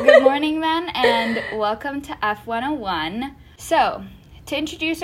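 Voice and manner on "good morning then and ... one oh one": announcer voice. Pretend. Opens show as announcer.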